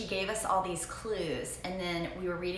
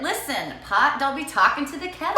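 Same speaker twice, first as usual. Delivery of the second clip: loud, higher playful comeback; louder, higher, teasingly offended; mock indignant retort; 7 semitones higher, 10 dB louder than usual. Real, not acted. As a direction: snap back in mock outrage.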